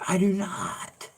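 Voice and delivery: very high, drawn-out puppet squeak; Peanut-like voice. Retold or imitated. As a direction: imitate a squeaky puppet's denial. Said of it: "you sound just like Peanut".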